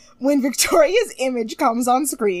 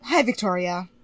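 Kelly; 5 semitones lower than usual. Retold or imitated. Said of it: "she just goes".

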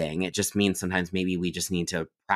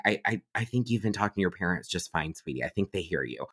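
gentle reassurance; 5 dB quieter, faster than usual. Retold or imitated. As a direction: gently reassure a tearful client. Reassuring the crying client, retold.

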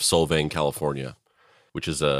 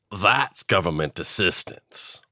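slow, odd-voiced "That's"; mock government line, slow and rising; mocking twist; slower than usual. Shown as a demonstration. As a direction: drag it out slowly in a put-on voice. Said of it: "joke contrast".

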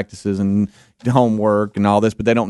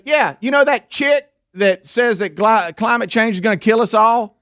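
imitating the guy; 10 semitones higher than usual. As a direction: drag it out like a clueless customer. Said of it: "And he goes".

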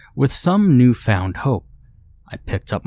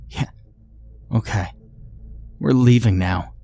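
angry husband; 2 semitones higher than usual. Acted. Husband confronting wife over betrayal, bitter anger.

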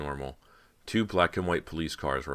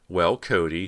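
louder, mildly icy address; cold greeting; 3 semitones higher, 7 dB louder, slower than usual. A narrator's reading. Persia catches Cody kissing Rob, cold. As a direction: open with a touch of cold disdain. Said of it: "she said coldly".

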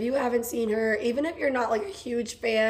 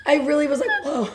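raised, louder voice breaking into laughter; laughing; 3 semitones higher, 6 dB louder than usual. Real, not acted. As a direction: tell it through real giggles, getting breathless. Laughing as she recalls screaming.

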